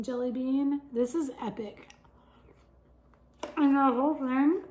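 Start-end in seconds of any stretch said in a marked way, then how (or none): 3.6-4.6 talking with mouth full; words round a mouthful of food; cheeks stuffed full. Real, not acted. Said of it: "I apologize for talking with my mouth full".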